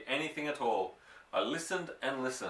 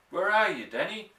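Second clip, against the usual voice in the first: calling out; 7 semitones higher, 4 dB louder than usual. A narrator's reading. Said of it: "my father called out".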